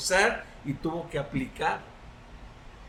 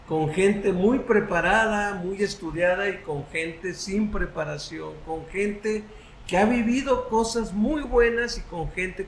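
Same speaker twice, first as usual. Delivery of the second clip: prayer. Real, not acted. Leads the closing prayer.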